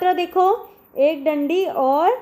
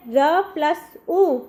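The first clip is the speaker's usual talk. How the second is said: slow spelling out; much slower than usual. Shown as a demonstration. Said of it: "इस प्रकार लगती है".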